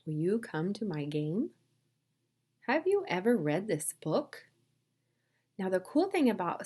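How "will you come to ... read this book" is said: questions lifting at the end; read-along questions. Shown as a demonstration. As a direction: read them as clear questions for learners. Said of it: "read these examples with me".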